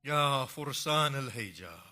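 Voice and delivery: loud call to absent warriors; crying out. Acted. Hussein calls his fallen warriors, crying out loud. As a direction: call out over the empty battlefield. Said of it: "cries out".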